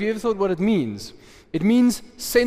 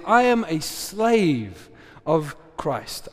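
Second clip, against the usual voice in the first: slow, weighty declaration of being Christ's slave; preacher declares to the church, slowly and weightily; much slower than usual. Shown as a demonstration. Preacher declares to the congregation, each word slow and weighty.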